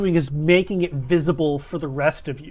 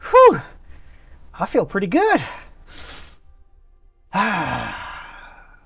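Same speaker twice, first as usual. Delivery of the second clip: put-on southern accent; slower than usual. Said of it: "southern accent".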